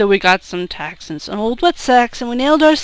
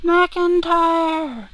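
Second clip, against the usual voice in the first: shouted name; 6 semitones higher than usual. Acted. Drinker in the cellar yells for his mate, shouting. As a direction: shout the name out, pitched higher. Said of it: "somebody shouted McIntyre".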